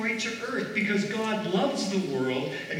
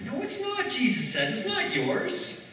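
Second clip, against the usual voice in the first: Jesus rebuke; 5 semitones higher than usual. Acted. Jesus rebuts sharply.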